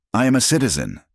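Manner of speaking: a high, pleading cry; a woman insisting on her rights to her captor; cried out. Acted. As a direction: fling it out high and urgent. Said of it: "Neha cried".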